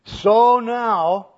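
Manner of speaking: "So now" loud, high and drawn out; stress on SO NOW. Shown as a demonstration. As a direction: punch both words of "So now". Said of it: "that's an emphatic here".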